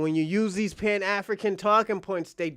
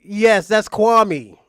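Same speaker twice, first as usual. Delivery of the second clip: drawn-out excited; 10 dB louder, much slower than usual. Real, not acted. Excited recognition of guest.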